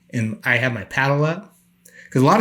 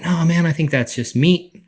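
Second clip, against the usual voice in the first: higher, slow and unbothered; casual nonchalance; 6 semitones higher than usual. Retold or imitated. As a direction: shrug it off calmly. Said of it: "So I was like".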